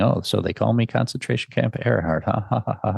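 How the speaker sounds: lightly voiced colonel, laughing at his own nickname; mock gloating laugh. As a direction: ham up a nervous fake laugh. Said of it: "and laughing".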